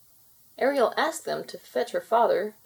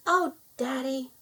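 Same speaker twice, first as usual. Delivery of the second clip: higher, a relieved cry to her father; 6 semitones higher than usual. A narrator's reading. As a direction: run to Daddy with relief. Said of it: "Laurel cried".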